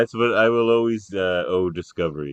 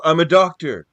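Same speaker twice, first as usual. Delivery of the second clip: doctor's protest; 7 semitones higher, 8 dB louder than usual. Retold or imitated. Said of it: "they can go".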